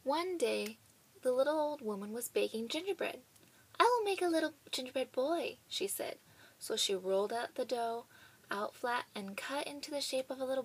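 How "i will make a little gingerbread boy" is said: put-on old woman's line. Old woman voiced in story.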